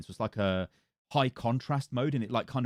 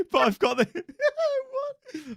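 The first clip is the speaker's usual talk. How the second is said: laughing while talking; 4 dB louder, slower than usual. Real, not acted. Laughing mid-sentence, breaks off.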